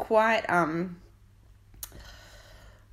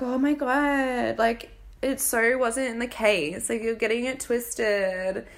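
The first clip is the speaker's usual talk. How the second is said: mock defensive; 4 semitones higher than usual. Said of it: "they were just like".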